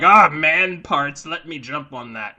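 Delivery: eager, loud and drawn-out mock swoon; Joni. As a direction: imitate someone lustily pouncing, loud then easing off. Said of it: "Joni would have been like".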